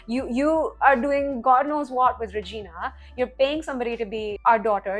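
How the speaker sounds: loud retold outburst, not a real scream; mild mock yell. Lestat yelling at Louis, mild mock yell. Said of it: "He's, like, screaming".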